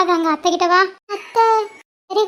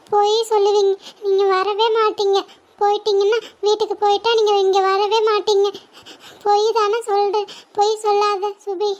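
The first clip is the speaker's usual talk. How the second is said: put-on tearful child; 2 semitones higher than usual. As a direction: draw out the accusation through tears. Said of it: "நீ அழுகாத செல்லம்". (அழுதுகொண்டே மெதுவாக)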